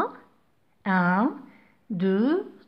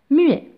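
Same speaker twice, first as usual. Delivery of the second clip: "muet" punched higher and louder; stressed key word; 5 semitones higher, 7 dB louder than usual. Shown as a demonstration. Teacher stressing the answer to students. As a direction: hit muet hard. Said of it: "comment il est ce H?".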